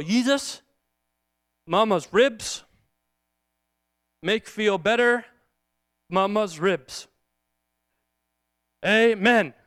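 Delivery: put-on halting toddler prayer, long pauses between phrases; lightly voiced little boy, word groups slow and simple; imitating a small child praying. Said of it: "And he says".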